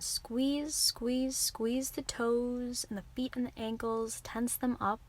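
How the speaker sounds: tensed, insistent coaxing; urging a squeeze. Real, not acted. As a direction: urge them to hold the muscles tight. Coaching muscle tensing before release.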